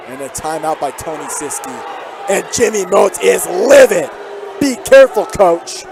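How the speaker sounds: steady broadcast call, lifting on each drive; live play-by-play. Real, not acted. Commentator calling the game for listeners at home, play-by-play.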